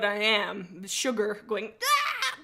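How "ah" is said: short, high, loud "aah" yell; key-mash scream. Shown as a demonstration. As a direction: let out a sudden high-pitched screech. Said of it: "That is my key mash".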